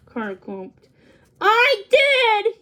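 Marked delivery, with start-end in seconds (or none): 1.4-2.5 high, loud startled confession; sudden realization. A narrator's reading. Carter realizing his own wish caused it, loud high blurt. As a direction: blurt it out as it dawns on you. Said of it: "he realized".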